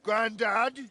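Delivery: high, loud offended question; indignant echo. Acted. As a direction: throw the word back, offended.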